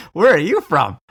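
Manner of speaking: surprised echo. Retold or imitated. The American tourist echoes the boys' question back, astonished. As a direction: throw the question back, stunned. Echoing the boys in disbelief.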